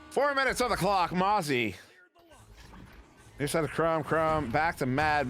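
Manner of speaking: quick, lively sportscaster call; live play-by-play. Acted. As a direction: call the action as it happens.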